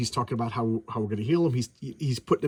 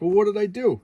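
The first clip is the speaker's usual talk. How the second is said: higher, louder what-did-I-do; mock innocent surprise; 8 semitones higher, 6 dB louder than usual. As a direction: play the baffled innocent. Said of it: "And he's like".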